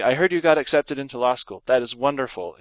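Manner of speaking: warm congratulations with one lift; pleased but not overdone; measured excitement. Shown as a demonstration. Teacher reading the adequate example, lightly excited. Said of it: "an exclamation point would be adequate".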